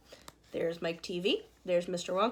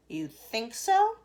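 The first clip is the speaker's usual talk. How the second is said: cried out; 2 semitones higher, 8 dB louder, much slower than usual. A narrator's reading. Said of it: "cried Mister Wonka".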